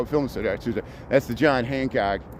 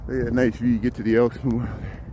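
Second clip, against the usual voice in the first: slightly out of breath, breathy words; faster than usual. Real, not acted. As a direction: talk while catching your breath from the hill. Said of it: "I'm out of breath".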